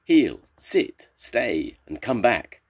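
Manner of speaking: loud, high dog commands; storybook shouting. A narrator's reading. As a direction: shout orders at runaway dogs. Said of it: "The dog's people all shouted".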